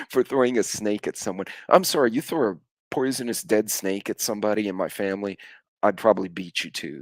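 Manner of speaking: ordinary talk, nothing marked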